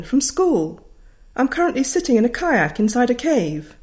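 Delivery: breezy and bossy; a teacher phoning from a kayak; confident teacher. Retold or imitated. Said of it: "said the voice".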